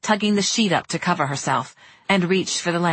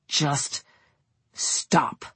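whispered; 3 semitones lower, 4 dB quieter than usual. Acted. Kevin silences Alex.

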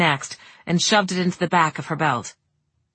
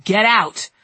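firm warning; 3 semitones higher, 4 dB louder than usual. Acted. Last warning to Kevin.

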